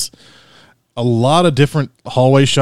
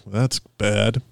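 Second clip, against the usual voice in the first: disapproving; 2 semitones lower, 5 dB quieter than usual. Retold or imitated. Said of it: "people were like".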